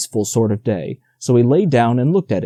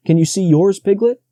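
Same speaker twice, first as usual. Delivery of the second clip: small Roo voice; 7 semitones higher than usual. A narrator's reading. Roo asking eagerly.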